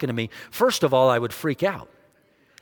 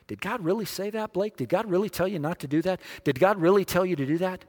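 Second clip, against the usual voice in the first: whispering tempter; 3 semitones higher, 3 dB quieter than usual. Acted. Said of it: "tempted with a question".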